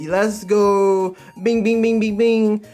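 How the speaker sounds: high, loud chanted celebration; hyped cheer. Retold or imitated. Streamer cheering on the manga scene, loudly hyped. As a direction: sustain it like a victory call.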